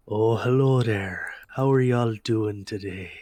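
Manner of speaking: a hint of an aged, welcoming shopkeeper; elderly shopkeeper. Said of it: "he kind of looks up and he goes".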